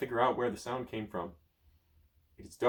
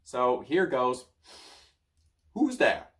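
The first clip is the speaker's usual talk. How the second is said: mocking echo; 6 dB louder, slower than usual. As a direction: throw the question back. Merlin mocking the question.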